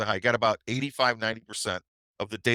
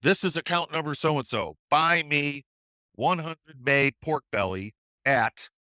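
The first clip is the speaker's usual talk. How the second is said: yelling into the phone; 5 semitones higher, slower than usual. Retold or imitated. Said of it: "yells into the phone".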